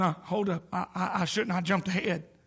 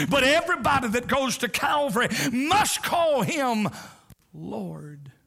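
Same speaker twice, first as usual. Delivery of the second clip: building shout; 3 semitones higher than usual. Real, not acted. Preacher calling the crowd to name him Lord, building shout. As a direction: shout it up then drop.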